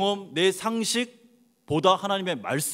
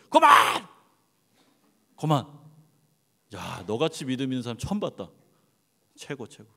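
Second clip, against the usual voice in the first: mock startled God; 3 semitones lower than usual. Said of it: "하나님이 깜짝 놀래가지고".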